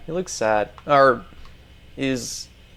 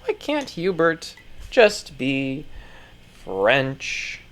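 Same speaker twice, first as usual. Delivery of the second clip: mock lament; 5 dB quieter, much slower than usual. Mock lament after the news.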